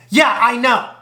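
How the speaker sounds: hammed-up cocky self-praise; cocky brag. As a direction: brag it like it's obvious. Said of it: "This girl gonna snap".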